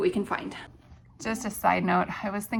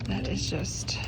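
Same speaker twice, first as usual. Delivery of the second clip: whispering; 6 dB quieter, slower than usual. Real, not acted. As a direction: coo it under breath. Whispering in store.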